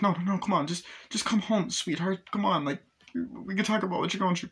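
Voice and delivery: high, urgent begging father; pleading dad. Retold or imitated. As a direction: beg her to come home, scared. Dad begging daughter to come home.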